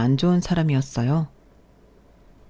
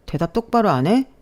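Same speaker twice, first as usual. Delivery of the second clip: stern scolding; 4 semitones higher than usual. Acted. Resident berating the nurse.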